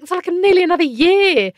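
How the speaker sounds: high, exasperated disbelief; retold dismay. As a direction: protest the long wait, pitch up. Retelling her dismay at delay.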